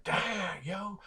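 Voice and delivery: high, soft drawn-out wow; impressed amazement. Acted. Player learns he can be an orc, impressed amazement. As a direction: marvel in a high, hushed voice.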